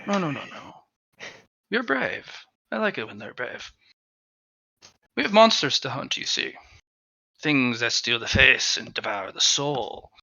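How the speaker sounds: hushed sinister creature voice. Acted. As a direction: whisper of an ancient predator. Mask creature speaks to character.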